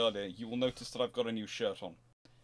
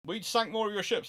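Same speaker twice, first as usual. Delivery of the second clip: much higher and louder, boasting the win; mock triumphant gloat; smug victor; 11 semitones higher, 6 dB louder than usual. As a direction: crow over the enemy like a gloating admiral. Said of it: "one side can go".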